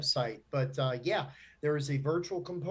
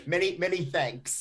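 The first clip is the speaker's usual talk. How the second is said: mock German accent; 3 semitones higher than usual. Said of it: "I don't know what that accent was".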